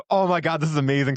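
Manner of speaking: thrilled by mom's news; amazed delight. Retold or imitated. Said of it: "And I was like".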